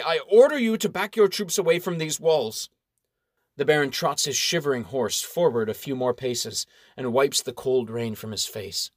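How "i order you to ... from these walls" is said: stately official. Acted. Official gives order.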